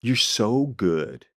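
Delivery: soft, slow, low-key flattery; careful, drawn-out diplomatic tone; tactful praise. Retold or imitated. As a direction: gently let a friend down with praise. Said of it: "this is how I frame it".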